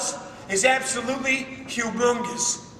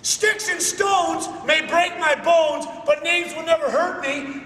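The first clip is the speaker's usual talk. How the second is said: mocking the saying at a slow, raised pitch; scornful mock recitation; 4 semitones higher than usual. Shown as a demonstration. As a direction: hammer out "Sticks and stones" with contempt. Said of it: "complete and utter trash".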